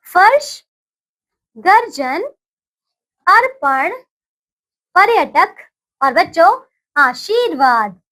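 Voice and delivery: put-on slow, clearly spaced words for children to repeat; teacher's call-and-repeat drill; repeat after me. Shown as a demonstration. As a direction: say each word cleanly, pausing for the class to echo. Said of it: "कुछ और शब्द देखते हैं".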